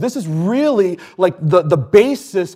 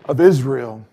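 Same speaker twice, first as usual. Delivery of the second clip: crowd acclaiming; 5 dB louder than usual. Acted. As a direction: call it out like the welcoming crowd. Crowd's acclamation read as shout.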